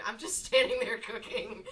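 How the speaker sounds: laughing as it is said; amused despair. Real, not acted. Gamer caught standing there cooking, laughing self-mockery. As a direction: let laughter break into the words.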